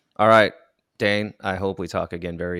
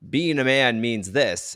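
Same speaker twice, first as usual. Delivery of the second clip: mock preachy voice; 5 semitones higher, 4 dB louder, slower than usual. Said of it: "someone does something that says".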